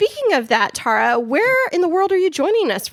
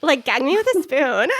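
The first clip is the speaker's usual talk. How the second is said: put-on Valley girl voice; 3 semitones higher than usual. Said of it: "talk like a Valley girl".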